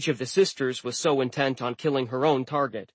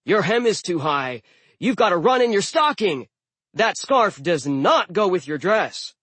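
higher, scandalized fashion critic; blistering critique; 5 semitones higher, 4 dB louder than usual. A narrator's reading. Blitzen distracting giantesses in battle, blistering critique. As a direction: scold with emphatic, swooping outrage. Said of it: "blistering fashion critiques".

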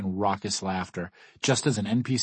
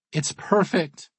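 high, loud squeal of put-on delight; 10 semitones higher, 5 dB louder, slower than usual. A narrator's reading. Kat playing along, hugging her friend, excited squeal. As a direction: squeal it as if thrilled. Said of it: "Kat squeals".

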